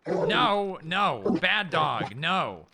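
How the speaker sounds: loud, firm scolding of the dog; stern dog command. Real, not acted. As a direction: bark the order at the dog.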